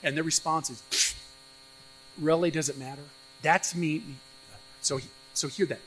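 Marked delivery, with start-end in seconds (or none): 0.9-4.0 scoffing, dismissive pfft; disdainful sniff. Retold or imitated. Priests scoffing at God's law, disdainful. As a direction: brush it off with a sniff. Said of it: "that's disdainfully sniffing".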